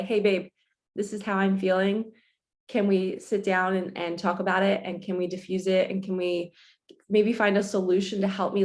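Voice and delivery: gentle, open plea to partner; calm loving request. Shown as a demonstration. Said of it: "We have to say".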